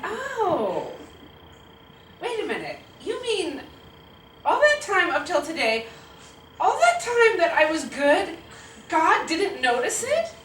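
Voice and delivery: put-on high-pitched, incredulous kid protest; little kid indignantly working it out; dismayed child. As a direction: build from a drawn-out realization to loud disbelief. Child's dawning dismay at news.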